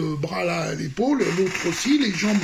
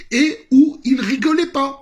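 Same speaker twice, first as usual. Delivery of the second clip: emphatique; 8 semitones higher, 7 dB louder than usual. Real, not acted. Insiste, public furieux.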